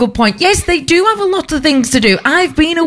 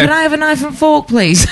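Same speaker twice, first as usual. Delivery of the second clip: laughing as she asks for cutlery; laughing request; 3 semitones higher than usual. Pretend. A customer laughing as she asks the waiter for cutlery, playfully. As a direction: put on a cheeky laughing ask.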